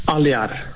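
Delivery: Aliar said as ah-lee-AR, falling; correct name pronunciation. Shown as a demonstration. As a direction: model "Aliar" with a separate i vowel. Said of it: "is correct the pronuncia".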